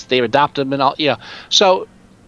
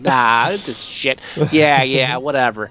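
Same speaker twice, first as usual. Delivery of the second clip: bitter grumble; 3 semitones lower, slower than usual. Retold or imitated. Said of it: "What a bitter fuck".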